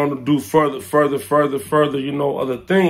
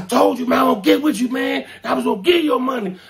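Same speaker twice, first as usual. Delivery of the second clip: voicing Omar; 9 semitones higher than usual. Omar quoted.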